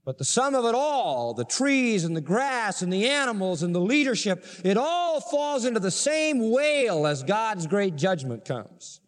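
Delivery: lifted, rolling preacher's cadence; dramatic sermon summation; impassioned preaching. Acted. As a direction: build the list in a high, sweeping sermon voice. Preaches the climax of wailing.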